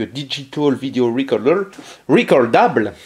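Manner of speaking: English words in a French accent; real French accent on English. Real, not acted. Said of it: "Excusez-moi pour mon accent anglais".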